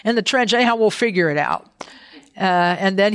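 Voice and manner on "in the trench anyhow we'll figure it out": mock fretting. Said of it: "And I'm like".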